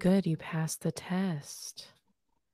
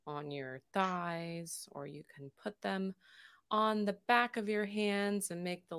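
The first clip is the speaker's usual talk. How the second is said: guided meditation. Acted. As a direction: lead the breathing gently, unhurried. Leads a breathing meditation.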